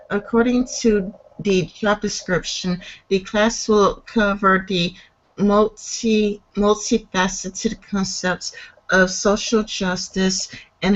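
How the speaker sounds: careful, halting read-aloud; article reading. Real, not acted. Host reading a class description aloud, measured. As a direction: read it out evenly, phrase by phrase.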